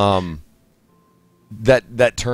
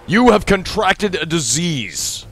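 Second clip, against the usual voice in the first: higher, dramatic announcement of bad news; game message read-out; 3 semitones higher than usual. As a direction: read the game warning out theatrically, stretching the first line. Reading game's disease message aloud.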